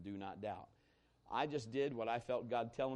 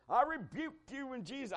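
higher, hammed-up preacher's rebuke; mock rebuke; 11 semitones higher than usual. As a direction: play the churchy declaration he didn't make. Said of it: "I didn't get all religious".

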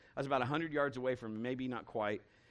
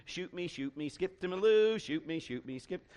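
mocking singsong, loud on skip to my loo; taunting deer; 3 semitones higher, 3 dB louder than usual. Deer teases the hunter in a mocking singsong.

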